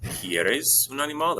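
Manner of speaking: slow and lifted, each word spelled out for learners; slow clear teacher question. Shown as a demonstration. Teacher models a follow-up question for students, slow and lifted. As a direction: ask it slowly and high, like modelling for a class. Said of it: "I might say".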